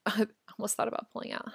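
laughing while repeating it. Real, not acted. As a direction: say it again through a laugh.

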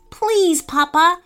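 put-on high, begging child voice; pleading. A narrator's reading. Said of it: "he said in a pleading voice".

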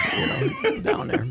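words breaking up in high laughter; laughing. Real, not acted. Host cracking up about Catholics down there, laughing.

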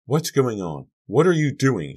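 put-on high, loud girl's demand; alarmed questioning. A narrator's reading. Sharon interrupts the fight, high alarmed questions.

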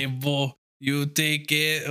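slow mock French drifting toward Canadian; botched French accent. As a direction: attempt slow French, landing somewhere Canadian. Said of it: "It's Canadian now".

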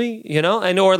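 usual speaking voice

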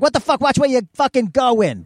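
high, irate yell at a pedestrian; angry driver. Retold or imitated. Angry Boston driver yelling at pedestrian.

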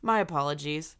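stuffy nose from being sick; nasal, congested cold voice. Real, not acted. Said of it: "if I sound nasally or a little flatter".

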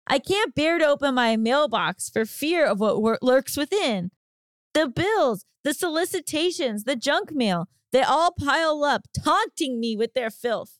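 lightly hammed-up melodramatic monologue; melodramatic Shakespeare reading. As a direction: read it like a tragic heroine, a touch overdone. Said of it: "it wrote".

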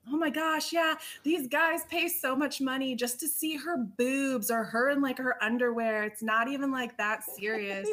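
mock excited blabbing; wild drunk friends. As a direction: imitate friends getting carried away at the bar. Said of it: "My friends are acting wild".

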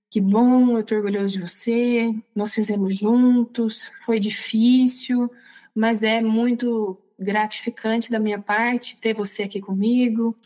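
slow, measured reassurance; imitating a proud, comforting voice, unhurried; calm voice. God praising her after the ordeal, calm. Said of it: "Era essa voz calma pra me dizer".

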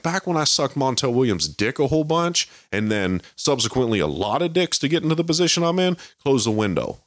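high, rambling mock voice; lightly voiced mocking imitation; mocking Kamala impression. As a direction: parody a politician going off on a tangent. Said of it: "She's like".

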